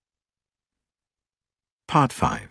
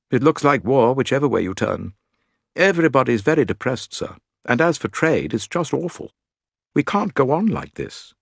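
higher, louder servant voice; valet's gloomy grumble, pitched up; worried manservant; 7 semitones higher, 3 dB louder than usual. Acted. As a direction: complain earnestly but respectfully to the master.

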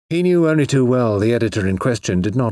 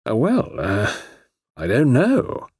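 cautious; 3 semitones higher, slower than usual. Acted. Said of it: "said Mister Eastwood cautiously".

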